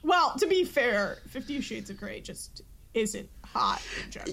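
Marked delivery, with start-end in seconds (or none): 1.3-4.3 whisper. Real, not acted. Catty aside about the film.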